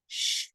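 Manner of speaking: "Sh" held long as a continuous hiss; stretched sh. Shown as a demonstration. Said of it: "can be stretched out".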